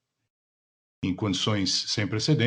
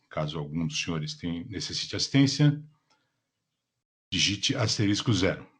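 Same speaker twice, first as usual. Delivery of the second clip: polished call operator announcement; customer service voice. Acted. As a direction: read it like a conference call host. Conference call operator opening. (voz de atendimento ao cliente)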